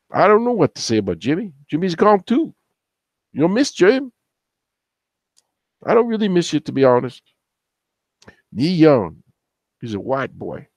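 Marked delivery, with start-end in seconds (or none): 0.1-7.2 put-on voice. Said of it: "I'll do a black voice again".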